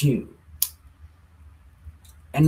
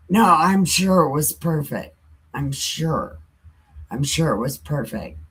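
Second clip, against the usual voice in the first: sarcastic concession; 3 semitones lower than usual. Acted. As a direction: concede it sarcastically, fading away. Satan doubting God's plan, sarcastic.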